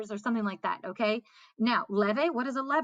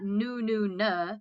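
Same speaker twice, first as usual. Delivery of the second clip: nous nous ne said as the wrong example; "nous, nous, ne" set out slowly as the mistake; wrong word order; much slower than usual. Shown as a demonstration. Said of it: "'Cause it's not".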